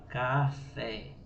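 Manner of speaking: café split in two, weight on the final fé; stress on FÉ. Shown as a demonstration. Teacher showing where café is strongest, final syllable stressed. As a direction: lean on the last syllable of café. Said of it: "ele é mais forte".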